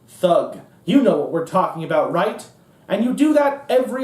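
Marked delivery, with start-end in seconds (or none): 0.1-0.6 thug said low and pointed, falling. Shown as a demonstration. Repeating the coded word thug for the crowd, pointed. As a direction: drop the word thug flat and heavy.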